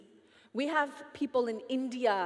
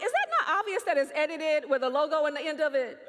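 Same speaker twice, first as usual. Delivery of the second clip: louder, quick incredulous retort; mock exasperation; 3 semitones higher, 6 dB louder, faster than usual. Answering worried messages about her video, mock exasperated. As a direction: protest the obvious, half laughing.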